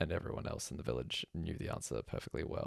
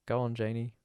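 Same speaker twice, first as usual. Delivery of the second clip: encouraging call; 9 semitones higher, 9 dB louder than usual. A narrator's reading. Woman encouraging from the crowd.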